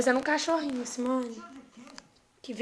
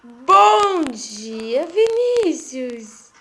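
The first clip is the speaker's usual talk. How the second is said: louder, slow singsong greeting; 3 semitones lower, 6 dB louder, much slower than usual. Real, not acted. Greeting baby loudly.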